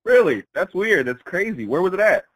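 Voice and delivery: feigned ignorance. Pretend. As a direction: play innocent with put-on curiosity. Feigns innocence about the prison.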